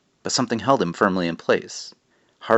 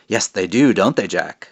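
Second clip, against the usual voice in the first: creepy witch voice. Acted. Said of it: "Creepy voice, isn't it?".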